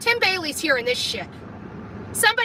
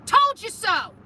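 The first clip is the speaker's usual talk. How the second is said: high, gloating "I told you" repeated; sing-song told-you-so; 4 semitones higher than usual. Real, not acted. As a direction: rub it in, higher. Gloating after confrontation.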